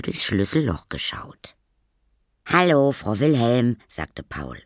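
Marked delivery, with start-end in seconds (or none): 2.5-3.8 high, loud schoolboy voice; boy greeting neighbour. Acted. (hoher, lauter Jungengruß)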